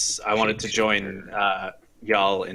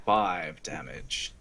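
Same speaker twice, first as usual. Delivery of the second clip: whisper; 5 semitones lower, 5 dB quieter, slower than usual. Real, not acted. Quietly reports roll result.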